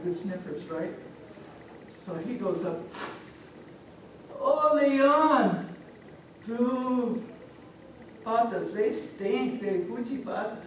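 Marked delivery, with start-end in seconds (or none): 4.4-10.6 high, drawn-out wail about a stink; dog character. Acted. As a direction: play a disgusted dog, stretching the words. Dog sniffs the lion's feet.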